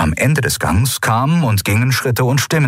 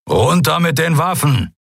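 higher, firm command; commanding order; 8 semitones higher than usual. Acted. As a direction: order them to drop weapons. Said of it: "befahl Keru".

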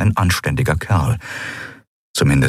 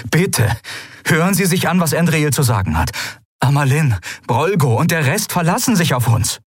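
much higher, urgent plea; Sephiron begging; 9 semitones higher than usual. Acted. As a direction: beg her to listen. (Sephiron bittet eindringlich)

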